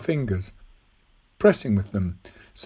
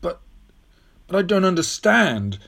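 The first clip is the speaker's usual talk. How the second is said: put-on halting, higher boyish protest; bewildered; 7 semitones higher than usual. Tom unable to follow the old woman, bewildered. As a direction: stammer the objection in confusion.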